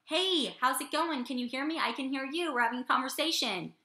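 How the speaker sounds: lightly acted caller checking the line; phone chat. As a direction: pretend to chat on a phone call. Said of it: "we put it up to our ear and we go".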